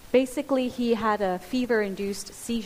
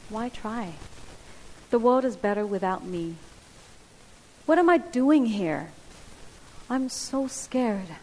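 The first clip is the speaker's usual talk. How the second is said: voicing the lies. Preacher voicing the lies people believe, despairing and sinking. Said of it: "They sound like this".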